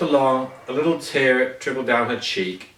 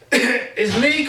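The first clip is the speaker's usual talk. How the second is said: higher called greeting at the door; calling out; 9 semitones higher than usual. A narrator's reading. Mister Happy at the cottage door, calling out. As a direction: call it through the door. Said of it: "called out Mister Happy".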